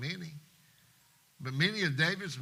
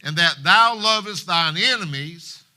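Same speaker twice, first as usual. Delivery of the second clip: loud, slow, forceful scolding; angry rebuke; 3 semitones higher, 9 dB louder than usual. Acted. General Joab rebuking King David, loud angry scolding. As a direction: hammer each line at the king.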